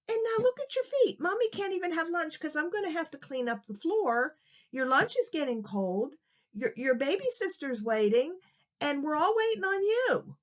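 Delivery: a mother fed up with waiting; scolding mother. Acted.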